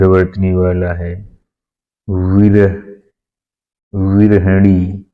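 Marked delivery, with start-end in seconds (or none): 3.9-5.1 विरहणी said slowly, each syllable clear; slow spelling-out. Shown as a demonstration. Teacher to students, slow careful विरहणी. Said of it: "इसकी सही वर्तनी है विरहणी".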